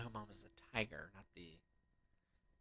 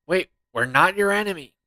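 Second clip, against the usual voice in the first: pleading; 7 semitones higher, 13 dB louder than usual. Real, not acted. Pleading to boss.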